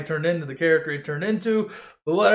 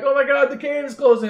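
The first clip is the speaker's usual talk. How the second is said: high, loud cry of alarm; mock panic; 8 semitones higher, 5 dB louder, faster than usual. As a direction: call out the danger in comic fright. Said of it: "and then they're like".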